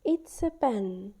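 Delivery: "It's a pen" slow, showing the contraction; contracted form. Shown as a demonstration. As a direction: say the short form slowly and clearly. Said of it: "to show the contraction".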